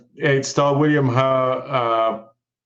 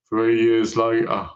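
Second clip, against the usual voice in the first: low, slow mock caption read; 4 semitones lower, slower than usual. Reviewer mocks the film's sudden time jump, mock caption voice.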